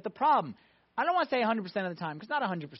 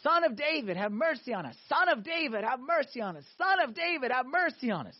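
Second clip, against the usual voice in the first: mock screaming plea; 4 semitones higher than usual. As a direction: imitate blind men calling out to Jesus. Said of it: "They started screaming to Jesus".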